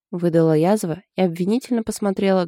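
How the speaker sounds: ordinary delivery, nothing marked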